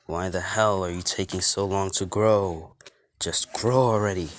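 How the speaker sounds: mildly fed-up outburst with some force; exasperated. Acted. Deku urging his antlers to grow, exasperated.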